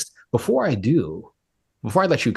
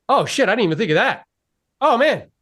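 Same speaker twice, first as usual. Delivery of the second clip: higher, building amazement as the impressed buyer; an astonished client who just realised; impressed surprise; 11 semitones higher than usual. Retold or imitated. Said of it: "You're like".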